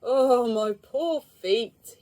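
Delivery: slow, drawn-out loud moan; a weary traveller moaning on arrival. A narrator's reading. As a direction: groan about your sore feet. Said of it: "he moaned".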